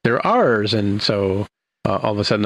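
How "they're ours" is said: quick, high, urgent announcement of arriving ships; excited officer report. Retold or imitated. Uhura tells the captain quickly and higher that ships arrive. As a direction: blurt out the news fast and high. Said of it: "Uhura says".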